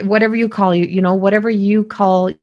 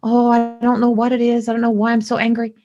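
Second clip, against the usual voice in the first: confused rush; faster than usual. Retold or imitated. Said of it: "And I'm saying".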